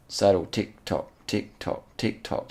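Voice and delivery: evenly spaced beats, like a metronome; rhythmic ticking. Shown as a demonstration. Commentator mimics the saddle's sway, rhythmic ticking. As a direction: tick it out in time with the swaying.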